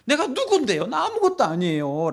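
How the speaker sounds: acted-out complaint to God; mild preacher's imitation of a plea; plaintive appeal. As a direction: protest your unworthiness, pleading. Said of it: "하소연을 합니다".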